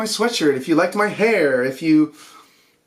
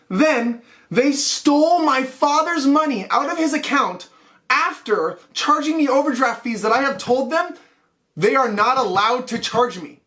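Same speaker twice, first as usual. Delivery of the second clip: angry rant; 3 semitones higher than usual. Real, not acted. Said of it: "I'm sorry I'm angry".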